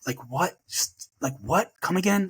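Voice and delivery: retelling the shock, disbelief building to "Come again?"; stunned disbelief. Retold or imitated. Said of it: "And I'm like".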